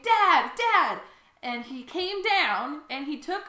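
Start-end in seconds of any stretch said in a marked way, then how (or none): 0.0-1.0 high, loud excited fan shout; retold fan scream. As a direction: call out like a screaming fan at the stage. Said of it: "screaming our heads off, saying".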